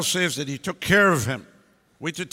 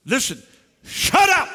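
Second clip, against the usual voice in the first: retold shout down the phone; sharp shout; 7 semitones higher, 5 dB louder than usual. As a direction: Shut up yelled much higher and louder. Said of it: "I said".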